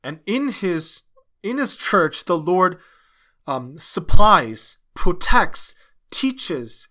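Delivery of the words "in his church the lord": ordinary delivery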